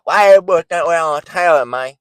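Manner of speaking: put-on fast, loud, slurred ghetto-accent whine; mock the mush-mouthed street accent complaining; high, rushed ghetto-accent imitation. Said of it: "'cause you speak like that".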